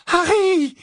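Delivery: very high, loud cry of a name; alarmed call. Acted. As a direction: call out sharply to warn him. Hermione calls out in alarm. (appel alarmé, aigu et fort)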